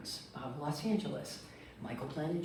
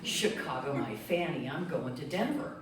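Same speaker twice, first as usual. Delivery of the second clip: giggling. Retold or imitated. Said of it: "I'm giggling the whole way going".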